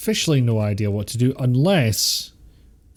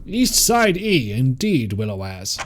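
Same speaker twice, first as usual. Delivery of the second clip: put-on posh voice. Streamer holding an impression while gaming, slow falling posh voice. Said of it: "I'm not keeping that voice up".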